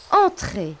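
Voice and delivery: gentle invitation. Acted. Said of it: "leur dit l'ogresse, toute gentille". (l'ogresse, toute gentille, les invite)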